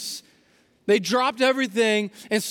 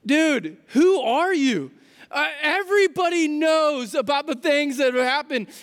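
can't believe he doesn't know; incredulous; 5 semitones higher than usual. Retold or imitated. Cleopas to the stranger on the road, in disbelief.

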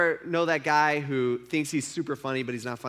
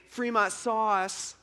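very slow, drawn-out jeer on Fremont sauce; mock taunt; 5 semitones higher, much slower than usual. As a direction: stretch out the lame rhyme mockingly. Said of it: "he kept saying".

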